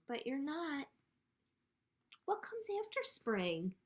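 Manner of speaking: measured read-aloud with deliberate pauses; picture-book reading. A narrator's reading. Librarian reads a spring book to children, measured storytime delivery. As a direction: read it out for small children, letting each line land.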